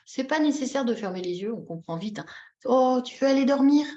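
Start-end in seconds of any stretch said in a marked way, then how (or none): 2.6-3.9 put-on parent-to-baby voice; gentle question to a baby. Shown as a demonstration. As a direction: ask a little one if it's bedtime. Acting out talk to a baby.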